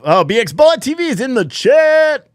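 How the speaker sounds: sudden bright pop of surprise at the chat; delighted shout-out to a viewer; pleasantly surprised. Real, not acted.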